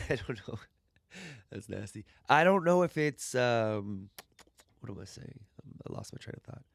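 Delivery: soft ASMR whisper close to the mic. Pretend. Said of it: "A S M R".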